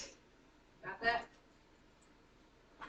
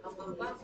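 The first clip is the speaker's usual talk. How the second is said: "bum, bum, bum" with the last bum stressed; anapestic beat; 4 semitones lower, 6 dB quieter than usual. Shown as a demonstration. Teacher demonstrating the meter, rhythmic stress. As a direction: tap out da-da-DUM on "bum, bum, bum". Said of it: "you feel it".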